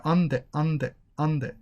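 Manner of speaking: "on the" run together as one short word; connected words. Shown as a demonstration. Teacher drilling how you connect on the, linked. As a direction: repeat "on the" as a single linked unit. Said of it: "You connect on the".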